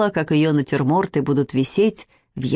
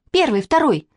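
high-pitched count-off, only mildly raised; child calling out; 7 semitones higher than usual. A narrator's reading. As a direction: pipe up like a girl on parade. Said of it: "крикнула Катя". (звонкий детский выкрик)

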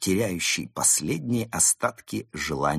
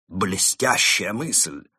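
delighted; 3 semitones higher, 4 dB louder, much slower than usual. Acted. Krot delighted.

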